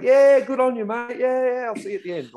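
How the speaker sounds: high, loud, breezy mate voice; a mate laughing off a request, squeaky and quick; Aussie mate brushing it off. Retold or imitated. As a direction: cheer him on like it's a joke. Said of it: "he's like".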